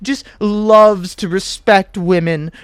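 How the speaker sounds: hammed-up smug self-praise in a lightly put-on voice; mocking Gale. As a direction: parody a vain, smarmy wizard. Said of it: "listen to him fucking talk".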